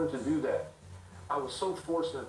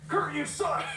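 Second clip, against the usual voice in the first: retold heckle; 13 semitones higher, 4 dB louder, slower than usual. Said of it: "The guy looked at Curt and goes".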